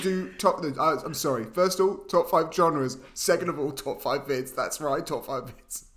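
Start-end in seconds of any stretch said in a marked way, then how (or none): none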